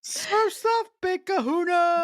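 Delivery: high, hammed-up gleeful call; imitated villain's taunt. Co-host quoting Edward's line, gleeful mock villain. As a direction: crow it like a cartoon villain.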